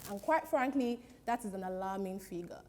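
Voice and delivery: lightly put-on formal newsreader; news anchor. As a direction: deliver it like a grave TV bulletin, hamming slightly. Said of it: "welcome to the nine o'clock news".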